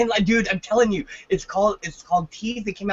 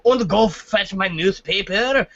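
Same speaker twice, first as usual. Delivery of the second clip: put-on German accent; 3 dB louder, slower than usual. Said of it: "but he was German".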